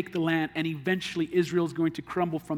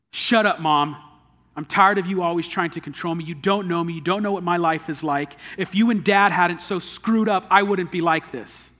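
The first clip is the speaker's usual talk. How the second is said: loud, furious son snapping back; angry son; 5 dB louder than usual. Acted. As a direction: shout her down in resentment. Son angrily snapping at mother.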